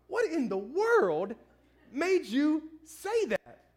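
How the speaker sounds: slow, drawn-out bewildered question; a lightly voiced puzzled wife; wife's baffled question. Wife asking her husband why he said it, slow and baffled. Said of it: "she goes".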